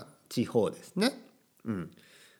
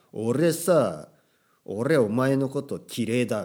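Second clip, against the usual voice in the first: a touch louder, slow gangster swagger; yakuza tough talk; 5 dB louder, slower than usual. Pretend. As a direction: play a tough yakuza, drawn out. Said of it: "ヤクザみたいなね".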